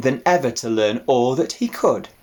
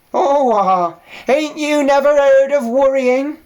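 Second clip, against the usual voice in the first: put-on old ewe voice; 8 dB louder than usual.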